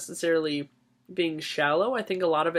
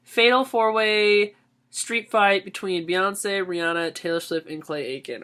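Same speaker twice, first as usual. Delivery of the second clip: reading question in mock voice; 3 semitones higher, 4 dB louder than usual. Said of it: "Next one is".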